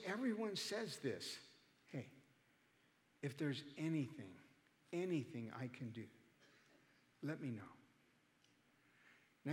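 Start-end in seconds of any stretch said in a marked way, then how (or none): 1.9-7.6 softer, lower, gently offering help; imitated condolence. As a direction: mimic a hushed, sympathetic funeral guest. Mimicking condolences at a funeral.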